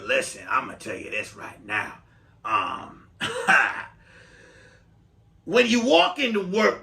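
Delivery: a hint of a territorial older lady; smoker's voice. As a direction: play the jealous older coworker who chain-smokes. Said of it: "she talks like this 'cause she smoked a lot of cigarettes".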